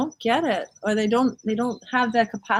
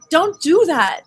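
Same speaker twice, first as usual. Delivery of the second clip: mock protest; 6 semitones higher, 7 dB louder, slower than usual. Joke patient protesting to doctor.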